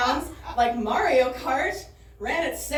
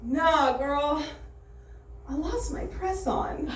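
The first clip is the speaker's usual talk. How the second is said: slow offhand reply; casual bathroom woman; 2 semitones higher, 3 dB quieter, slower than usual. Retold or imitated. Woman in the stall replying, slow and offhand. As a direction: shrug it off lightly. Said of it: "comes back with".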